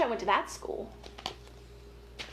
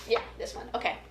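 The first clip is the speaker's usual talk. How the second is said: whisper; 2 semitones lower, faster than usual. Real, not acted. Aside whispering about book choice.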